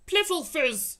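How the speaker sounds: loud, high bellowed word; giant shout. Acted. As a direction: bellow it in scorn. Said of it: "shouted the Blood Bottler".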